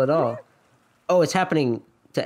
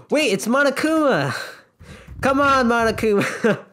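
gasp, then higher excited exclamation; excited recognition; 8 semitones higher than usual. Real, not acted. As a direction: cry out at a surprise arrival. Player reacts to Monokuma appearing.

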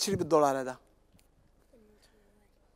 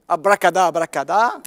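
magic spell; 7 dB louder, much slower than usual. Pretend. Magician casting spell over washing.

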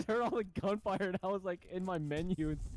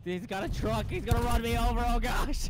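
panicked shouting; 2 semitones higher, 5 dB louder, faster than usual. Real, not acted. Enemy truck attacking, calls for help.

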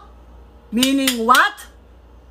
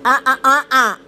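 lips apart, only ah sounds; lips not touching; 4 dB louder, faster than usual. Shown as a demonstration. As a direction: say it without closing the lips. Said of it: "But without it touching".

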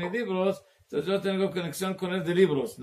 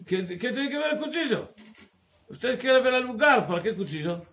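retold incredulous question, pitched up; questioning the odd request, voice raised; puzzled challenge; 5 semitones higher than usual. Acting out a puzzled challenge over knife.

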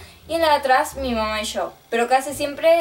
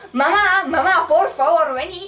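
higher pleading yell for mom; desperate yell; 4 semitones higher, slower than usual. Retold or imitated. Girl yelling for her mom while a robber pushes the door, desperate mock yell. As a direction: beg mom to come, retold in panic. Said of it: "desesperada gritando".

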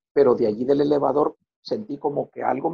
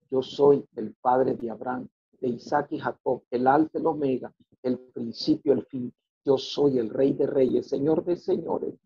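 slow and solemn, lightly voiced; voice of Jesus. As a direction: speak slowly like a calm divine voice. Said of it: "y me dijo estas palabras". (voz solemne y pausada de Jesús)

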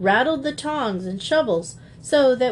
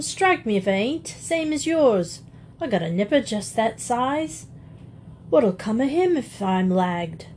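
begging burglar; 2 semitones higher than usual. Acted. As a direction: beg for your kids as a thief. Burglar begs to be let off.

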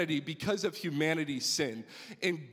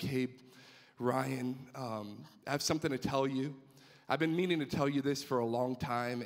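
emotional confession; 5 semitones lower than usual. Retold or imitated. Mother confessing to her son, low emotional voice. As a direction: haltingly break hard news to her son. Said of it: "she started talking in an emotional voice".

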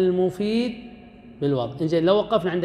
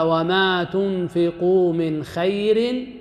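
slow recitation; 3 semitones higher, much slower than usual. Shown as a demonstration. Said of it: "يقول الله سبحانه وتعالى".

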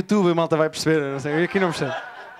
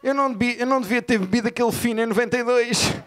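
put-on old man groaning; 4 semitones higher than usual. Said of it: "estão sempre assim".

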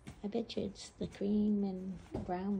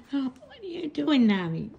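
calling out; 5 semitones higher, 11 dB louder than usual. Real, not acted. Calling out to the dog.

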